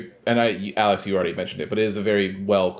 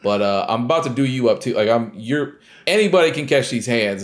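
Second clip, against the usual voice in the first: mock tough guy; 3 semitones higher, 5 dB louder than usual. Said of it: "you can hear in the speaker's tone".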